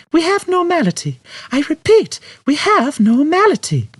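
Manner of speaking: high, loud announcement over the ship's speakers; over the ship's Tannoy. A narrator's reading. Trillian announcing the odds to the ship, over the Tannoy. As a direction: call out the figures across the whole ship. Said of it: "Her voice carried round the Tannoy system".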